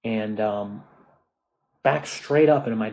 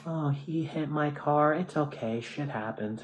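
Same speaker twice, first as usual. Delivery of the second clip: slow, higher mock-casual voice fading softer; lightly voiced dismissive woman; mocking the careless woman; 4 semitones higher, 5 dB quieter than usual. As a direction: imitate her shrugging it off. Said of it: "the woman came out and goes".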